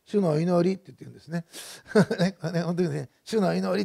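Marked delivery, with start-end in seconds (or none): 0.1-0.8 put-on Osaka accent. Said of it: "すぐ大きい声でですね、 ちょっと大阪、 大阪弁のアクセントで". 3.3-3.8 imitating mother's Osaka-accented call to prayer; mildly raised voice with an Osaka lilt; loud Osaka accent. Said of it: "大声で言うんですね。 小さい声じゃなくて".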